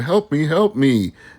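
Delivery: acted-out pleading cry, light, mild and high. Describing hostages in a shooter game pleading: imitating hostages screaming. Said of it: "they'll scream".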